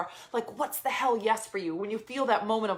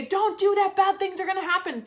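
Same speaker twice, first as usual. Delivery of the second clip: high, louder panicked warning; mock scream; 9 semitones higher, 4 dB louder than usual. Her nervous system shouting warnings at her, high mock scream. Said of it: "It's gonna scream at you and say".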